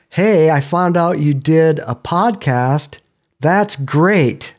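mildly sarcastic, slow mock praise; retold sarcasm. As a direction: imitate a friend's dry sarcasm, drawing it out slightly. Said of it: "very sarcastically".

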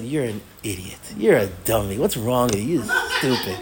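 low, deadpan insults with a laugh; mock scolding. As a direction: imitate a teacher teasingly berating a student.

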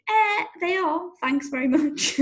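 high-pitched, put-out mock retort; indignant retort. Rider silently answering her nagging trainer, indignant.

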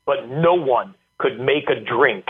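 slow, drawn-out pronouncement with rising brand names; a hint of a booming football coach preaching to his team. Head coach holding up ice water to his players, lightly booming. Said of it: "he said it in his booming voice".

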